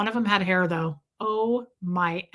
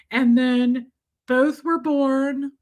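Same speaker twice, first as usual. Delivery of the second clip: slow storybook reverence; mock reverent; 3 semitones higher, slower than usual. Reciting a fake nativity story to the nurse, slow mock-reverent. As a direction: tell it like a holy legend.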